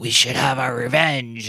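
strained raspy voice from the throat. Showing how the actress tries to rasp her voice in the movie, do a raspy Jan in the Pan voice. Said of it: "trying to rasp her voice".

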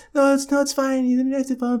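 very high put-on girl's voice. Retelling bumping into a girl and playing her reply: put-on voice for the girl. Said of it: "That's my voice for her".

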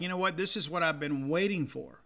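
normal talking voice

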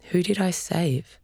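soft, quiet, slow voice. Narrator voicing Kaya asking her dad in the car, asking quietly. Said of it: "Kaya asked quietly".

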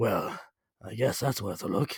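put-on soft, low, husky British accent. Recapping a movie scene, the narrator voices Loki's line in a husky British accent. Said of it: "Was that your British accent?".

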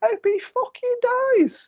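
put-on tiny, sweet, very high little-girl voice. Retelling a little girl in the front row: imitating a sweet little girl's voice. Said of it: "sweetest little six or seven-year-old voice of a little girl".

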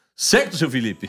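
plain

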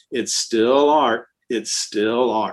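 put-on, totally unruffled, composed, super calm, slow. Retelling how Biscuit answered a man screaming at him, imitating Biscuit, mock super calm. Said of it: "Biscuit's being super calm".

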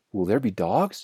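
ordinary talk

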